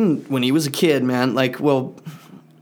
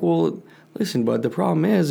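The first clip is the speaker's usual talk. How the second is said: patient dad explaining; 4 semitones higher than usual. Retold or imitated. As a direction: reason with an upset kid. Dad answers upset son, retold.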